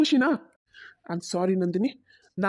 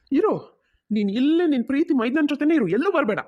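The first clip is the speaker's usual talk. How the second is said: angry retort; 5 semitones higher, 3 dB louder than usual. Acted. Husband snaps at wife.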